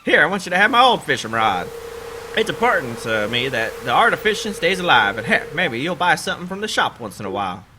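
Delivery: a touch of hearty sea dog; lightly voiced sailor. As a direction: hand over the rod like a kind old sailor. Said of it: "This is my sailor voice".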